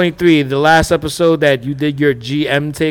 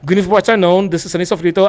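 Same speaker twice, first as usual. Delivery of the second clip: radio voice; 2 semitones higher, faster than usual. Acted. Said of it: "has a really good radio voice".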